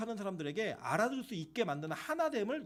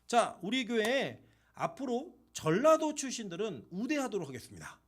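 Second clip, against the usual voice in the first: mock announcement. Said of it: "라고 얘기를 하면".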